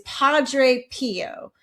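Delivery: put-on slow, drawn-out Italian accent. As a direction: say Padre Pio like an Italian, slowly. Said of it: "in a horrible Italian accent".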